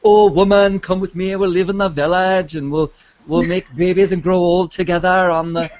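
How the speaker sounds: mock Welsh romantic hero in a Welsh accent; a hint of a Welsh accent, teasing. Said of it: "Yeah, I went Scottish".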